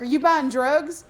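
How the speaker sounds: loud, slow accusing question; accusing shout. Retold or imitated. Mother confronting son about the phone call, loud and slow. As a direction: hurl the accusation at the kid.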